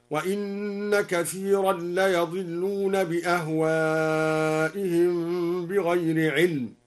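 slow chant, "ليضلون" as la-yadillun with a after y; al-Duri reading. Shown as a demonstration. Teacher demonstrating al-Duri, "ليضلون" chanted slowly as la-yadillun. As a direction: open the y of "ليضلون" with fatha. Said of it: "وفتح ليضلون".

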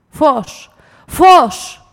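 calling out. Acted. Drunk man yelling at the lamp for light. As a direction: build the cry up to a full yell.

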